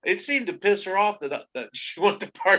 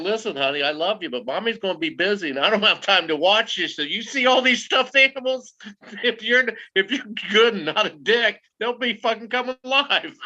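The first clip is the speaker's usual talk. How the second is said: mom voice; 4 semitones higher than usual. Retold or imitated. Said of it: "That's your mom saying".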